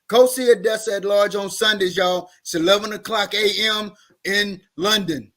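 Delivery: folksy, flat Southern country voice. Shown as a demonstration. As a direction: plug the show in a country twang. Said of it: "just as flat and country as you want".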